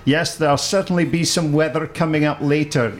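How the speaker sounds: breezy weather-girl read, lightly voiced; a hint of a chirpy forecaster announcing weather; Carol Smiley impression. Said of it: "That's the best impersonation of Carol Smiley".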